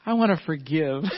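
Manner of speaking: laughing. Retold or imitated. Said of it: "he says".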